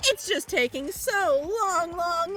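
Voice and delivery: mocking robotic bear; Monokuma voice. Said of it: "I do an okay Monokuma voice".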